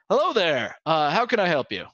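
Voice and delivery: a cheery gatekeeper hailing visitors; lightly voiced helpful guard; gate guard. Gate guard greets the party.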